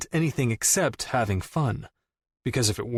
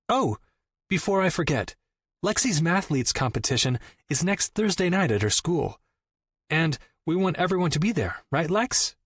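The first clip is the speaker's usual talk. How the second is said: sister's voice; 6 semitones higher than usual. A narrator's reading. Sister voiced, changing subject.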